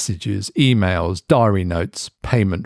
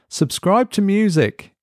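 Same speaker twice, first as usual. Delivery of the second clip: through clenched teeth; 12 semitones higher than usual. A narrator's reading. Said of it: "Through clenched but cleaner teeth".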